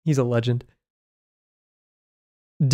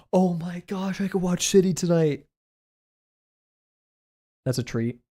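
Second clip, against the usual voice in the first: hushed excitement; 6 semitones higher, 4 dB quieter than usual. Real, not acted. Streamer realizing they can watch City tonight, softly gasping with excitement. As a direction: marvel softly in a raised voice.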